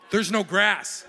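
loud, high laughing outburst; loud amused disbelief; laughing shout. Real, not acted. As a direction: crack up at the bare dirt. Showing the awful date park photo.

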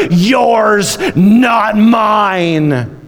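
rising to a full preaching shout; triumphant shout. Acted. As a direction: proclaim victory at the top of your voice. Preacher building to Jesus' triumphant cry.

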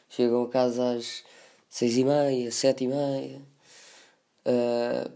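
slow, heavy, mock-tragic telling; half-hearted melodrama, drawn out; dramatic voice. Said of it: "eu vou continuar com esta voz dramática". (voz dramática exagerada)

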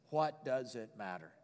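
low, slow, soft question; quiet shrug. Acted. Preacher voicing Paul shrugging off critics, quietly. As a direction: let it go softly, untroubled.

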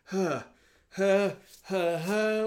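short huffs, rising in pitch; acted huffs. Game master voices a dazed character looking around, huffing. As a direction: huff it out in separate puffs.

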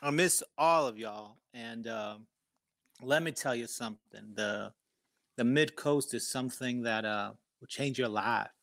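put-on country "y'all" accent. Newcomer addressing the hosts after moving to the mid coast, in a put-on accent. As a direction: lay on an affected country accent. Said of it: "how Madonna got a British accent".

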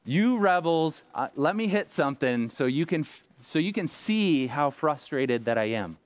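a hammed-up frustrated yell that cools off by the end; frustrated outburst. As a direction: play a fed-up Moses lashing out at the crowd. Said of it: "I'm like".

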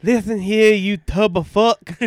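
loud, slow heel taunt; wrestling promo. Acted. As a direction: bellow the insult at your rival. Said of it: "Cutting the gay, uh, promo on Gacy".

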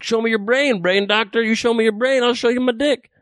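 high-pitched, worked-up retort; re-enacted argument at a high pitch; heated comeback. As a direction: fire it back insistently, pitch climbing. Acted heated argument with heckler.

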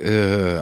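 drawn-out mock "ugh"; retold hesitant groan. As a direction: act out a reluctant groan. Retelling his own hesitation.

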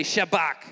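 shabach said with a clear sh at the start and the ch at the end; teaching a Hebrew word. Shown as a demonstration. Preacher teaching the camp a Bible word, shabach said slowly and clearly. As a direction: spell out shabach so the crowd can repeat it. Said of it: "Now you put the ch at the end".

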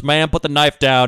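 slow, loud commanding order; stern cop voice. Retold or imitated. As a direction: bark it like a Coast Guard officer. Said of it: "the guy shines a spotlight at Ashley Judd and goes".

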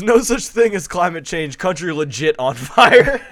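hammed-up Aussie voice laughing at the end; quoting chat, Australian accent. Host reads a chat message in a mock Australian accent. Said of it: "Run Nut says".

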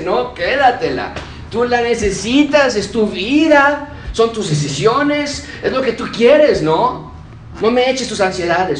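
God ironically refusing a proud believer's worry; ironic God voice. Acted. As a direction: hand it back with mild irony, as God. God answers the proud listener.

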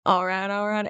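lightly imitated actor's catchphrase, run together; Matthew McConaughey. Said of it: "I'm just hearing his voice in my head".

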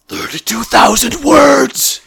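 loud, slow, disbelieving exclamation; incredulous exclamation. Real, not acted. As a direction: stretch it out in shocked disbelief. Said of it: "exclaiming the length".

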